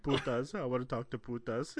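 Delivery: flat repeated demand; monotone voice. Retold or imitated. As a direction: drone it without feeling. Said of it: "he's all, like, monotone".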